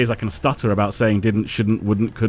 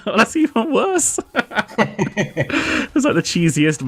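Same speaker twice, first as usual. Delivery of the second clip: laughing; 11 semitones higher, much slower than usual. Real, not acted. Laughing at the bad accent.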